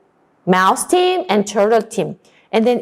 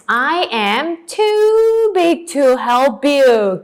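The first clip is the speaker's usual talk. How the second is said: slow model sentence; 3 semitones higher, much slower than usual. Shown as a demonstration. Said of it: "you made the sentence".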